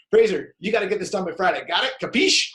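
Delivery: blunt, fast demanding boss voice; a brisk, pushy take on the deadline; bulldog boss. Shown as a demonstration. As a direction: bark the order like a bulldog. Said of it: "she needs to be the bulldog".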